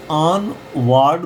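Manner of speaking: ऑन वार्ड as "aan-VAARD", long aa; long-A reading. Shown as a demonstration. Teacher shows a possible misreading, ऑन वार्ड with long aa. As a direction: lengthen the vowel of वार्ड to aa. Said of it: "भी पढ़ सकते थे".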